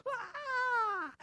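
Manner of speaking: high, loud cries of amazement; the crowd breaking out in astonished joy; amazed mourners. Retold or imitated. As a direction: mourners stopping their wailing to exclaim. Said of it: "and they're going".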